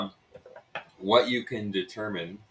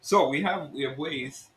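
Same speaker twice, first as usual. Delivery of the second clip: put-on Russian innkeeper's accent; hint at it like a Russian schemer; 2 semitones higher than usual. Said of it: "I'm gonna keep talking to that accent".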